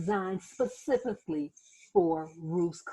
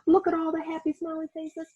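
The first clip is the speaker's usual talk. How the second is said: delighted; 7 semitones higher, 3 dB louder, faster than usual. Acted.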